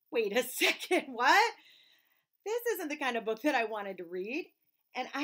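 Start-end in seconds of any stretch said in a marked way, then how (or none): 0.1-1.5 louder, half-laughing protest; mock alarm. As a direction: play at being caught out. Reader feigns alarm, laughing.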